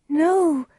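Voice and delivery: high, loud cry of denial. A narrator's reading. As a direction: cry out in shocked refusal. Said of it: "Juliet cried".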